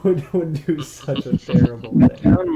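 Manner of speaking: loud, slow mock outrage; mock dramatic. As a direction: ham up the betrayal. Mocking dramatic echo of friend.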